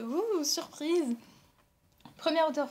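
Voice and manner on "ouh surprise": drawn-out, slow "ouh" of mild surprise; surprised. Real, not acted. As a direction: let the news land slowly, a little amazed. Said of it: "Là, je suis un peu". (un peu surprise, lentement)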